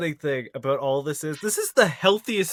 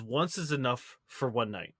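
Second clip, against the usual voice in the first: quiet, low retelling; 6 semitones lower, 10 dB quieter than usual. Retold or imitated. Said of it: "he says".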